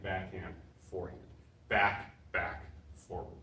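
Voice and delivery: rhythmic calls of each strike, dropping away at the end of each set; drill calls. Shown as a demonstration. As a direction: call out the combo as you hit. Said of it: "calling strikes while drilling".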